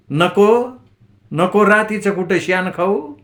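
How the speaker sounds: wife rushing at husband, half-shrieked; near scream. Acted. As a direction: cry out as if almost screaming. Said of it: "किंचाळल्यासारखं म्हटलं".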